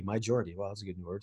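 talking between sips of tea; words around a sip of tea; sipping hot tea. Real, not acted. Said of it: "Sorry, sipping on some tea".

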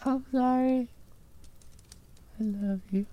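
very low, soft slurred mumble; drunk slurring. Acted. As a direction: slur it, nearly passed out. Gnome passing out drunk.

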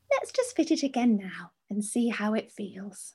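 a hint of a soothing, patronising shop assistant; lightly voiced condescending fitter; patronising calm voice. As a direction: softly talk down to the customer. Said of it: "saying that in a really calm voice".

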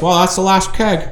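high mock quote of the coworker; Carrie's voice. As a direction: lift the voice way up to mimic her. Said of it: "And then Carrie goes".

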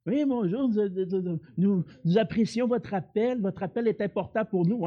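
lightly voiced call-centre recording; a hint of a phone recording; customer service voice. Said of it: "vous appelez souvent les compagnies".

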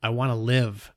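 croaking voice. Acted. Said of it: "My voice croaked out harshly".

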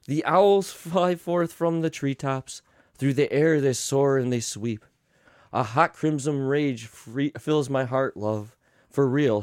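lightly soothing storybook read; tender bedtime read with angry asides; bedtime story reading. Acted. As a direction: read it like a lullaby book. Reads bedtime story parody.

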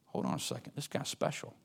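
quiet, almost whispered thought; hushed realisation. Acted. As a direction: murmur it as a dawning realisation. Widow's inner realisation, hushed.

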